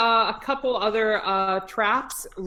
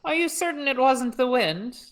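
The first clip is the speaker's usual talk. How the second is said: put-on Shakespearean British accent; 4 semitones higher than usual. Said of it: "Shakespearean Brits".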